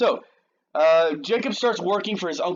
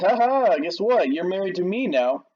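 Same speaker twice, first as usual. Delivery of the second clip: teasing taunt; 5 semitones higher, 4 dB louder than usual. Retold or imitated. Leah taunts Jacob in morning.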